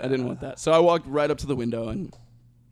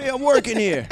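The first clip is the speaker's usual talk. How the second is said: high, loud hammed-up protest; mock indignant shout; 11 semitones higher, 7 dB louder than usual. Acting out artist's look at the cops, mock indignant shout. Mock outburst at being interrupted.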